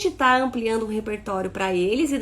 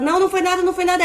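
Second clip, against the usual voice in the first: higher, louder brushing-off; dismissive; 8 semitones higher, 6 dB louder, much faster than usual. Shown as a demonstration. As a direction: brush it off briskly. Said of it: "Outra coisa é falar". (pai descartando o choro da criança, em tom alto e apressado)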